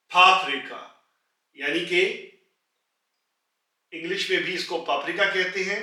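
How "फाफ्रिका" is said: फाफ्रिका said loudly, falling at the end; teacher's model word. Shown as a demonstration. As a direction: say फाफ्रिका clearly for the class. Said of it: "आवाज ऊपर को जाएगी". (फाफ्रिका को ज़ोर से, गिरती लय में)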